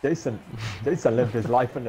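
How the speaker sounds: put-on shaky stab at a British accent. Friend taking his turn at the sentence, attempted British accent. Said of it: "That's like Australian".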